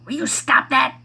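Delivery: high, loud imitated son snapping; mock outrage from a kid caught out; imitating son's loud high scold. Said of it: "he goes".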